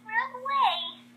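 high-pitched fleeing cry; mock panic. Missy fleeing the concrete, high mock panic. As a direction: call it out high, in play panic. Character flees in story.

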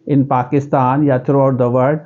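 slow question in a local Pakistani accent; local-accent English question. Shown as a demonstration. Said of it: "local accent में question कर रहा है". (पाकिस्तानी लहजे में धीमा सवाल)

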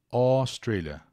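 Australia begun with a long open O; open O pronunciation. Shown as a demonstration. Teacher repeating Australia on a viewer's request, open O. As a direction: stretch the open O that starts Australia. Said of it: "pedindo pra eu repetir".

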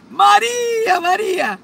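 high-pitched shout of her name; yelling in her ear. Retold or imitated. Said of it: "le grita en la oreja".

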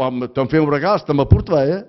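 quick retold remark; fast, offhand neighbour's reply; quoting the man. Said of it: "e l'uomo ha detto".

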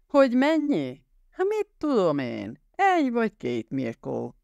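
scornful, high-pitched scoff at the offer; scoffing outburst. A narrator's reading. Drunk gunman sneering at the rich hostage. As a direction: laugh off the ransom with contempt.

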